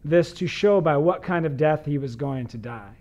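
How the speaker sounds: measured, formal reading of the gospel; scripture reading. Acted. Pastor reading scripture to listeners, measured and formal. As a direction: read the passage aloud to the congregation.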